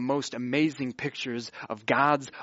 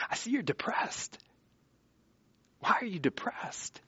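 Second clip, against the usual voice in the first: soft, higher, gentle questioning; friendly concern; 7 semitones higher, 8 dB quieter than usual. Acted. God talking to fallen-faced Cain, soft friendly concern. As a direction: ask softly, like a concerned friend. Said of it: "he talks to him like a friend".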